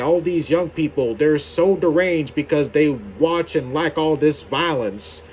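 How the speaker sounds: a light, hammed-up Western accent mocking older critics; a half-hearted Western accent impersonating a complaining elder. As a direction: put on a lightly voiced Western accent, making fun of the old folks.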